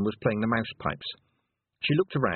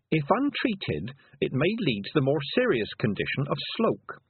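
higher, recited medical advice; reading aloud; 4 semitones higher than usual. A narrator's reading. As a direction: read out the remedy to listeners. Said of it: "she read".

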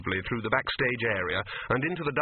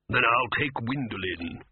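lightly voiced scheming wizard, slow; a sly, unhurried wizard making his claim; the chair's voice; slower than usual.

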